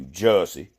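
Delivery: Jesse drawn out into Jussie in a Southern accent; mock thick Southern pronunciation. Shown as a demonstration. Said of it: "with a thick Southern accent".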